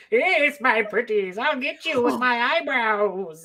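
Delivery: slow, lightly voiced witch; a hint of a storybook witch, drawn out; Wicked Witch of the West. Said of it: "the Wicked Witch of the West".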